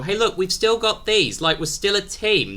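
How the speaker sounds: high-pitched mock pleading; high, earnest appeal to a teammate; hopeful plea. Pleading that they're still a team.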